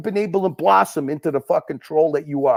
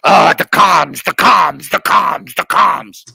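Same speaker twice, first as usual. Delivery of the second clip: mock fretting; 3 semitones lower, 4 dB louder, slower than usual. Mocks repetitive chant about comms.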